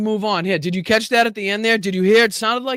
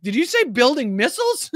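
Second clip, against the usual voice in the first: incredulous question, pitched up; confused reporter; 4 semitones higher than usual. Retold or imitated. Streamer imitates a reporter reacting to missiles, confused. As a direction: mimic a baffled reporter with a laugh. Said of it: "hear the confusion in the reporter's voice".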